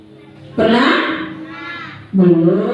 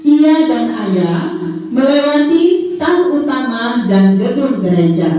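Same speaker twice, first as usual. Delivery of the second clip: put-on reading to a toddler; 3 semitones higher, slower than usual. Reads a story to the children.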